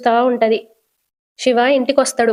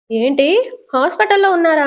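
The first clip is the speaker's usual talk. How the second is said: a mild tearful cry, pitch rising high; a touch of weeping, voice climbing up; 6 semitones higher than usual. Acted. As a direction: ask through light sobs, shocked. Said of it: "అని ఏడుస్తూ అడుగుతది".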